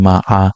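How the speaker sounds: মা আ rising; মা আ with a rising tune; second tone ma. Shown as a demonstration. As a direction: lift মা আ upward. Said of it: "বোঝালে fibre".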